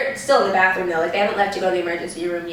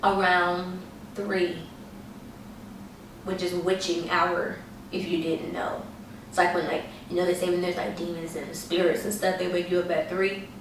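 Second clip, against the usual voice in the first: hushed spooky narration; 8 dB quieter than usual. A narrator's reading. Spooky witching hour setup.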